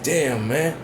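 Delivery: a hint of Roman Reigns hamming it up, son shouted; mock Roman Reigns promo. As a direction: parody a cheesy wrestling promo line, ending in a yell. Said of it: "He said".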